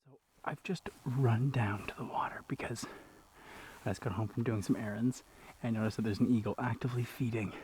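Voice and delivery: out of breath from running; breathless, panting between words; gasping for air. Real, not acted. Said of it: "I'm out of breath from running".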